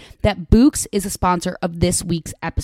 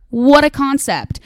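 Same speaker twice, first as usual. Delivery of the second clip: slow, higher, louder sarcastic remark; sarcastic quip; 7 semitones higher, 5 dB louder, slower than usual. Real, not acted. Podcaster mocking how rare talking during sex is, sarcastic and drawn out. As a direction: drag it out with heavy irony.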